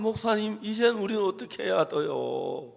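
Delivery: high-pitched mock tearful pleading; retold sobbing plea. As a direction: imitate someone crying out for help, quickening at the end. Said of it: "막 그러면 막 우는 거예요".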